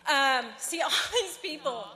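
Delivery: laughing. Real, not acted. Nervous laugh during speech.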